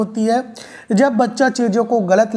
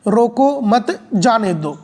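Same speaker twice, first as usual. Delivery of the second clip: slow, measured रोको मत, then जाने दो apart; pause before जाने; slower than usual. Shown as a demonstration. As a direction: break the phrase after मत. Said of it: "इस शब्द का मतलब कुछ दूसरा होता है". (धीरे, मत के बाद विराम)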